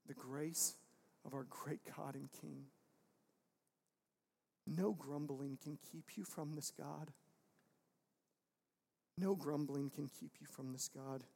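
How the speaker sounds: soft, low preaching with long pauses; hushed reassurance. Real, not acted. Hushed reassurance after sermon climax.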